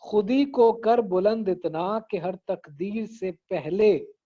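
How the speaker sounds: slow connected recital of the first line; खुदी को कर बुलंद इतना flowing as whole words, deliberately; verse recitation. Shown as a demonstration. Teacher presenting the first line before counting, verse recitation. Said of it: "पहला मिसरा है".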